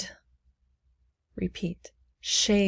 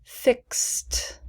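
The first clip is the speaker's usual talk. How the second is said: whispered; 3 semitones higher than usual. Shown as a demonstration. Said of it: "please repeat after me".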